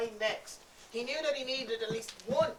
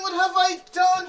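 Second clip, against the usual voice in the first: louder despair with "I" stressed; anguished cry, stress on I; 7 semitones higher, 13 dB louder than usual. Acted. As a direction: cry out, blaming yourself on "I". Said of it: "he cried".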